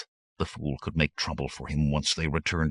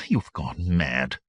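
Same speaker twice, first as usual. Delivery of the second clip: cold and calm; slower than usual. Acted. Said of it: "voice was cold and calm".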